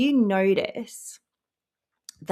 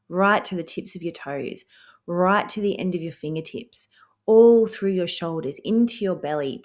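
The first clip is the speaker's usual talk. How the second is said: guided breathing. Acted. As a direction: lead them gently through the breath.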